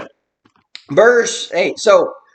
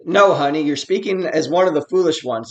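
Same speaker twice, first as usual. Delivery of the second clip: gentle correction; 2 semitones lower than usual. Acted. Preacher trying Job's kinder answer to his wife, gentle correction. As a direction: let "honey" soften the correction. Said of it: "it all depends on how you read it".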